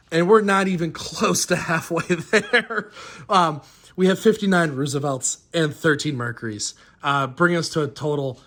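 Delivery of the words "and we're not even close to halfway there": laughing. Real, not acted. Laughs amazed at total.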